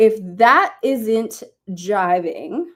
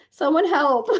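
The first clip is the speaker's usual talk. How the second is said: usual speaking voice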